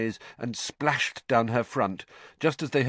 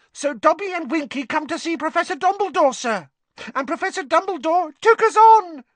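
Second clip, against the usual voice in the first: high, loud squeaky elf; shrill house elf shout; 5 dB louder than usual. A narrator's reading. Dobby telling Harry his story over Winky's screeches, shrill. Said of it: "shouting shrilly over Winky's screeches".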